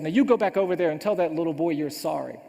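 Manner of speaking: lightly voiced mother laying down the law; stern mother. Mother orders her son to apologize, stern.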